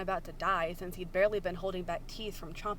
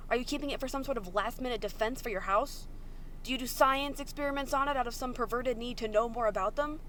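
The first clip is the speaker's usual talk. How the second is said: angry interrogation; 3 semitones higher than usual. Acted. Virgil interrogates Logan angrily.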